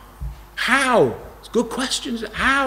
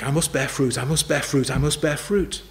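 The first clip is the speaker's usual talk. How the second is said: lower, repeated self-reminder, a mild imitation of a striving believer; lightly voiced anxious refrain of someone trying hard; striving self-talk; 3 semitones lower than usual. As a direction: say it over to yourself like a nagging duty. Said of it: "is not to go home and think".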